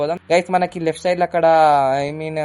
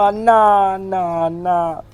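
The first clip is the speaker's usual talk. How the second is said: loud, high call; 4 semitones higher, 4 dB louder, slower than usual. Real, not acted. Driver calling out to a man on the road, loud. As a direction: shout to get his attention.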